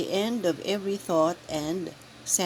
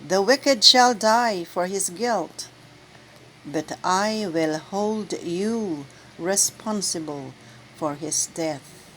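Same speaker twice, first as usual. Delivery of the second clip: solemn proclamation. Acted. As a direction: proclaim it to the assembly with gravity. Proclaims the first reading.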